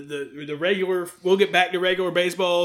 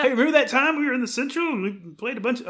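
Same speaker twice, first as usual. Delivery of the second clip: Skip Carey impression; 5 semitones higher, faster than usual. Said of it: "I'm Skip Carey all of a sudden".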